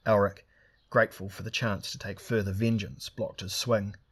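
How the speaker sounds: ordinary delivery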